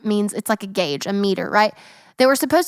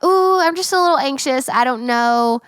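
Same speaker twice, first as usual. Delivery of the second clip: high, light mock-innocent voice; a sing-song bit of mock innocence; innocent little voice; 3 semitones higher than usual. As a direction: make it sound cute and harmless. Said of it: "what started out as innocent".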